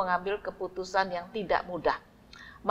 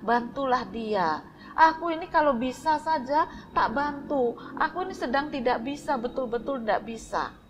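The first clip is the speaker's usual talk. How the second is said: wife pleading; 5 semitones higher than usual. Acted. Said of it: "istrinya bilang".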